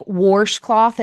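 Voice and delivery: "washcloth" said slowly as "warshcloth". Shown as a demonstration. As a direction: put an R into "washcloth": warsh-cloth. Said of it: "like, a much deeper thing".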